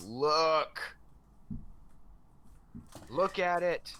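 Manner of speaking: high, loud desperate yell; exasperated scream. Pretend. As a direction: scream it like pointing at undeniable proof. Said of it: "point to Virginia and scream".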